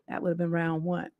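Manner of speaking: ordinary talk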